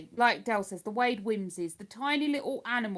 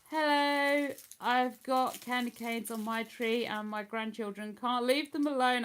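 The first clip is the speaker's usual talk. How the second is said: posh English accent. Shown as a demonstration. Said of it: "I can be posh".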